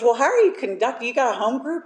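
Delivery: quick, high questions; brisk questioning. Retold or imitated. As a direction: fire off the questions. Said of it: "she goes".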